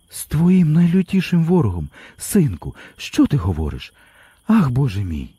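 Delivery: high, pleading cry of disbelief; a mother's voice breaking at her son's words; mother near tears. A narrator's reading. Mother hearing her son call his brother an enemy, near tears. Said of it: "І мати заридала".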